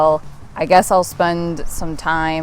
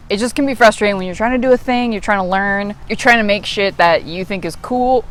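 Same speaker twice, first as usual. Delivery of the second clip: hiccuping; 3 semitones higher than usual. Real, not acted. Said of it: "sorry, I keep hiccuping".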